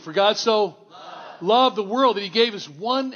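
firmer, with conviction; said like you mean it. Shown as a demonstration. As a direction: congregation told to mean it, said with conviction. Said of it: "say it like you mean it".

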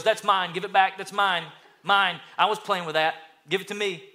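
put-on a bratty kid demanding his toy back; playful imitation of a possessive kid; whiny kid voice. Child grabbing toy back.

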